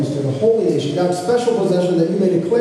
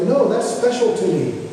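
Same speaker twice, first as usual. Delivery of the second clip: imitating his boys; 5 semitones higher than usual. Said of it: "the phrase they use is like".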